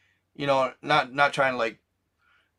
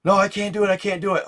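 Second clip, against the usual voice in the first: higher, panicky retold refusal; lightly voiced frightened girlfriend; mock panic; 5 semitones higher, faster than usual. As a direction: imitate a girl too scared to jump. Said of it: "she panics".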